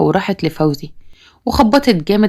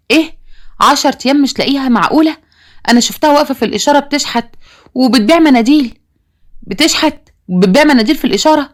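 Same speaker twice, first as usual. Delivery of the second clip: higher pitched, shocked questions; can't believe what he's hearing; alarmed disbelief; 6 semitones higher than usual. Acted. Father hearing his lost daughter begs, higher alarmed disbelief. Parents learn daughter missing, begging.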